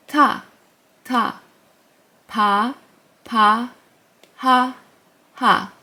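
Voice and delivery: each syllable alone, with pauses to echo; repeat-after-me drill. Shown as a demonstration. Teacher leading a repeat-after-me drill. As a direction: call out syllables for students to copy. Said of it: "Repeat after me".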